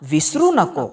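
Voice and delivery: put-on measured, sing-song reading of a children's poem; poem recitation. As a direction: Marathi kids' poem read aloud. Teacher recites Marathi poem.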